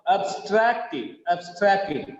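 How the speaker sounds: "abstracted" as ub-STRACT-ed; weak first syllable. Shown as a demonstration. Teacher showing the verb, weak ab in "abstracted". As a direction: reduce ab, lean on STRACT in "abstracted". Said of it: "ab becomes weak".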